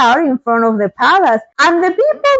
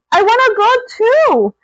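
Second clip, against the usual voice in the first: put-on pleading girl; 9 semitones higher than usual. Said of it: "she screamed".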